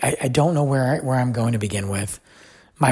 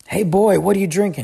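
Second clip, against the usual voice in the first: retold raised-voice challenge across the bar; calling out; 7 semitones higher, 4 dB louder than usual. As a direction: imitate a bar patron calling over, louder and higher. Bar patron calls out to him.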